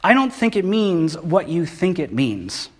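slow, deliberate movie line; mildly voiced dry Inigo Montoya. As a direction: lay it out slowly and pointedly. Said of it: "he looks at him and he says".

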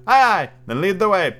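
high, loud rallying cry; loud, high-spirited command; calling out. A narrator's reading. Peter rallies Tinker Bell to go.

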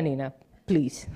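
slow, soft plea breaking into laughter; giggling please; laughing. Real, not acted. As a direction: laugh while telling Nina to stop. Laughing at Nina in congregation.

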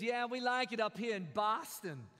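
mock Boston transplant; lightly put-on Boston accent; imitated Boston accent. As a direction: imitate a Southerner gone Boston. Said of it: "Well, he moved to Boston".

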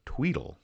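soft ringing tweedle mimicked; phone ring. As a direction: coo it like a quiet phone. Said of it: "That's the sound effect".

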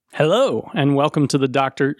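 lightly voiced pirate host, undecided; a hint of pirate in a show greeting; half-hearted pirate. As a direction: start a pirate intro without committing. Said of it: "couldn't decide if you were gonna do a pirate voice".

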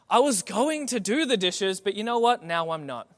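hammed-up teen diva protest, dropping at the end; frustrated teenager. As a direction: act out a huffy teenage refusal. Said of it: "I would get so frustrated".

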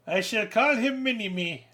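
high, slow, put-on villain voice; mock movie villain. Naming the tiny actor in the photo, slow high villain voice. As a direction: deliver it like a smug evil mastermind.

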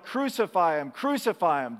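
loud, repeated cry of the mob; crowd's yell. Retold or imitated. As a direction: shout it like the crowd demanding death. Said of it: "that yelled".

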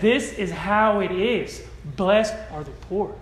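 slow, firm declaration; authoritative Jesus. Retold or imitated. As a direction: lay it down as settled fact. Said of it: "that's not what Jesus said".

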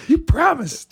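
high, slow, laughing complaint; laughing high whine. Retold or imitated. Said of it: "It's like".

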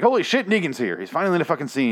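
finally-he's-here excitement; excited outburst. Retold or imitated. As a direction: react like it's finally happening. Acting out his reaction to scene.

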